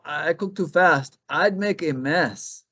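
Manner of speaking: high, quick bunny voice; jittery rabbit. Acted. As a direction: bounce through it like a hyper hare. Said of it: "said Conejo".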